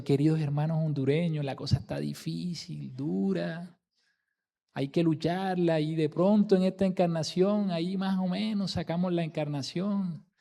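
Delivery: discouraged speaker going through the motions; unconvinced tone. Shown as a demonstration. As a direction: speak as if you barely believe it. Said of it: "por lo menos por el tono de voz".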